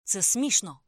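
loud exasperated exclamation; exclaimed. A narrator's reading. Narrator to Karla, loud exclamation. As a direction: blurt it out, loud. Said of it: "вигукнув я".

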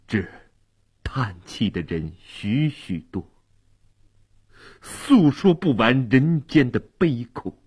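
word by word like a schoolboy; reading aloud haltingly. Acted. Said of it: "像小学生那样一个字一个字地念".

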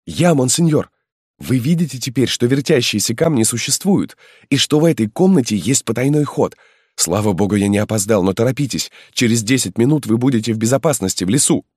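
a loyal lad pressing his lord to hurry; eager young peasant. Acted. Halmalo urges the marquis to flee, high and eager.

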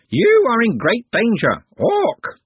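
high, slow warning rising to a shriek; screeching bird creature. A narrator's reading. Bird creature warning Glenda of danger, screeching.

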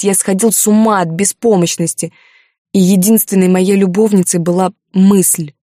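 heated reproach to his lover; restrained anger. Acted. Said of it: "тяжело дыша от гнева".

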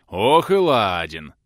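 slow, loud burst of laughter from the prince; laughing out loud. Acted. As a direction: roar it out laughing, slowly. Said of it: "расхохотался в ответ Донской".

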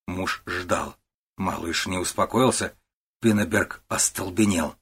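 plain reading voice

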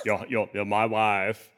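slow attempt at a Borat accent. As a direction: draw it out like a half-hearted Borat. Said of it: "You can't do the Borat voice".

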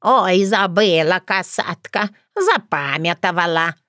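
slow, playing-dumb granny voice; doddering old woman. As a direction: play the forgetful old crone. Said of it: "подыграла я ей".

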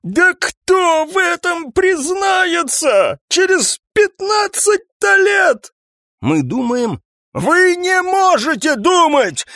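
high, slow raging rant; hoarse furious shouting. Acted. Captain raging at his three staff, high hoarse shouting. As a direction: scream himself hoarse. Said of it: "кричал осипшим шёпотом".

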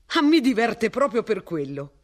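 delighted with himself; cheerful. A narrator's reading. Martin answering mister Ransom cheerfully. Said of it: "commentò Martin allegramente".

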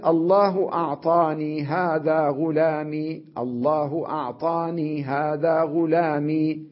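slow teaching example, أعطاني and غلامي ending in long ee; silent ya. Shown as a demonstration. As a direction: draw out the final ee in أعطاني and غلامي. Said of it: "كانت ساكنة". (ياء ساكنة ممدودة في الوصل)

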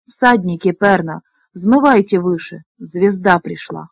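measured, incantatory poem reading; solemn verse recitation. A narrator's reading. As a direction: recite it in short, weighted phrases.

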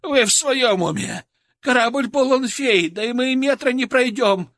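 a frightened fat man shrieking objections; shrill panicked protest. A narrator's reading. Scared scientist protesting to the soldiers, shrill. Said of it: "взвизгнул один из спасённых".

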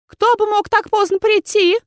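put-on high, frowning old aunt's voice; the aunt frets about a late knock. A narrator's reading. Aunt wondering who knocks so late, frowning high voice. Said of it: "нахмурилась тётушка".

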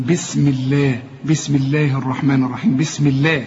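low-pitched بسم الله with a thin "lleh"; light lam in الله. Shown as a demonstration. Teacher recalls the Fatiha from prayer, الله said thin. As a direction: keep الله light and fronted. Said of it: "عشان الميم مكسورة".

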